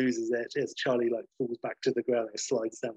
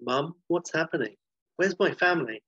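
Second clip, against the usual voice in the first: put-on higher, anxious boy's voice; worried son; 5 semitones higher than usual. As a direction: ask like a scared child. Son in dream calls to mother.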